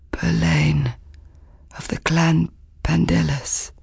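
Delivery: dull, rasping whispered reply; exhausted man rasps out his name, whispering. A narrator's reading. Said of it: "His voice was dull and rasping".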